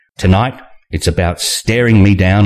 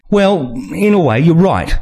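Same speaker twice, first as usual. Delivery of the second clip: Nina voice; 8 semitones higher than usual. A narrator's reading.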